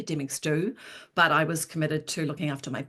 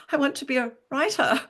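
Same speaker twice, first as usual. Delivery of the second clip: repeated clearly and higher, louder; 7 semitones higher than usual. Retold or imitated. Repeating her dream to the counsellor who misheard, louder. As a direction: say it again so she can hear it this time. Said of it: "I said".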